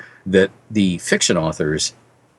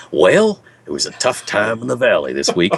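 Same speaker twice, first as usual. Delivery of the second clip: folksy western host; old storyteller voice. Retold or imitated. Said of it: "He'd squint into the camera and say".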